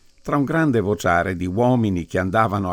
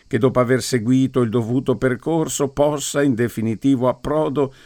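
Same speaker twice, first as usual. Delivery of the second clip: mock solemn prayer; 2 semitones higher than usual. Priest blessing the wine for the men, mock solemn prayer. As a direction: intone it like a graveside blessing. Priest prays over the grave.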